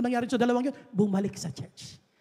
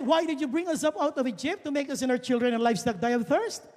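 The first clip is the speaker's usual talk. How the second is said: sarcastic; 3 semitones higher, 3 dB louder than usual. Acted. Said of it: "very sarcastic".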